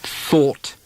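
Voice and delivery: "Thought" with a long open aw vowel; "Thought" said slowly as thawt; demo of aw vowel. Shown as a demonstration. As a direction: stretch the aw in "Thought". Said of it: "Now let's try it".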